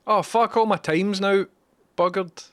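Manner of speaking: sudden high, loud curse of frustration; frustrated outburst. Real, not acted. Streamer cursing at the game for wasting his time, frustrated loud. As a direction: blurt it out as the clock is ruined.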